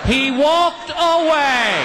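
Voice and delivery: high, slow, laughing through it; can barely get it out for laughing. Real, not acted. Comic wraps the elevator story, laughing.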